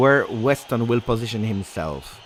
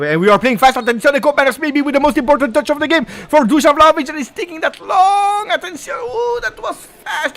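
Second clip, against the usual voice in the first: much higher, shouting with rising excitement; excited commentary; 5 dB louder than usual. Real, not acted. Fan commentator roaring as Juve break fast, excited. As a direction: yell it as the attack breaks.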